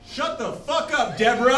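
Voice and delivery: put-on teen girl yelling back at the woman who scolded her; mock angry yell. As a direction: bark it back at her, half-joking.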